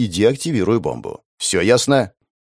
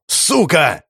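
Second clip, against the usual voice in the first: angry curse; 6 semitones higher than usual. Acted. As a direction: bark «Сука!» while slamming the table. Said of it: "Он ударил по столу".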